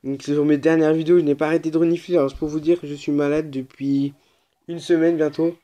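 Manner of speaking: stuffy nose from a cold; sick voice. Real, not acted. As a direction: speak through a head cold. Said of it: "je suis un petit peu malade".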